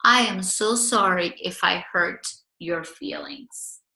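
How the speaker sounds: slow, gentle sincere apology; nice and sincere. Shown as a demonstration. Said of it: "you can say nicely and sincerely".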